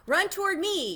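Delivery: very high, loud gander yell. A narrator's reading. Gander calling Wilbur over, loud high yell. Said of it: "yelled the gander".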